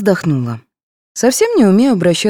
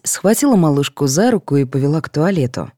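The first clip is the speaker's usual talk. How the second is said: plain reading voice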